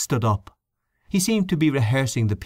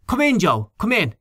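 calling out; 11 semitones higher than usual. A narrator's reading. Henchy calls to Joe at the door, raised friendly call. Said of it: "he called out".

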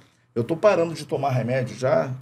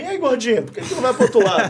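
teasing through laughter; 6 semitones higher, 3 dB louder, faster than usual. Retold or imitated. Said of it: "olhou pra mim".

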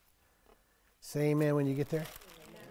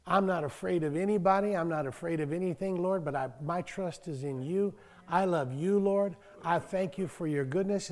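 soft prayer. Pretend. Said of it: "just say".

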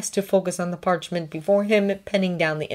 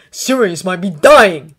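urgent; 11 dB louder, slower than usual. A narrator's reading. Harry yelling at Draco.

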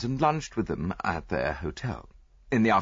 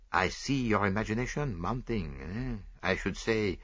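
put-on fussy Belgian detective, lightly French-accented; lightly voiced proud Belgian sleuth; Poirot voice; 2 semitones higher than usual. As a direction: play the vain little detective sure of himself. Poirot teasing Hastings.

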